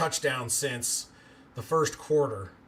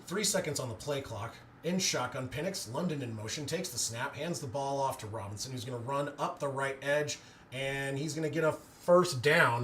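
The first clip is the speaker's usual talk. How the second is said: live play-by-play. Acted. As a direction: narrate the run calmly as it happens. Calls the run play.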